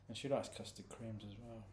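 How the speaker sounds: unvoiced whispered aside. Real, not acted. Owner whispering that his dog likes biscuits. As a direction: whisper it as a secret.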